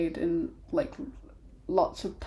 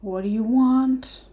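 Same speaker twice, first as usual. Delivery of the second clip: gruff dwarf demand; 5 semitones higher, 7 dB louder than usual. Acted. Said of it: "she kind of walks over and goes".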